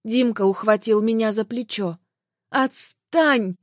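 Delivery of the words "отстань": a sharp cry of get away; wife shaking off her husband's grip with a shout. Acted. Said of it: "выкрикнула я".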